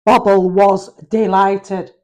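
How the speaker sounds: hoarse, throat-clearing voice; frog in throat. Real, not acted. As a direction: read through a frog in your throat. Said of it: "got a frog in my throat".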